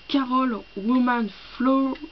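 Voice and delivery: slow English in a French accent; clumsy French-accented English; bad English accent. Real, not acted. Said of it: "mon accent pourri".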